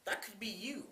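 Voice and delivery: hushed whisper of a worried mom; mom's whispered warning to her son; retold mom whispering. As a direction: breathe it like a frightened warning. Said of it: "And she's like".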